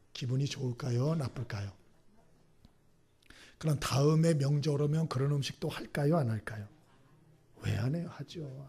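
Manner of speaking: ordinary talk, nothing marked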